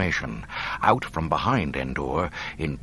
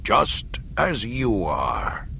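cold officer; 3 semitones higher, much slower than usual. Acted. Hidden Imperial officer speaking.

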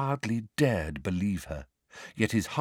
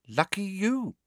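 cool; 11 semitones higher than usual. A narrator's reading. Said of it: "said Ginny coolly".

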